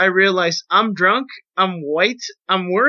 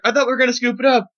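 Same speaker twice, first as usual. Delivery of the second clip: quoted friend; 5 semitones higher, much faster than usual. Retold or imitated. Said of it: "Los is like".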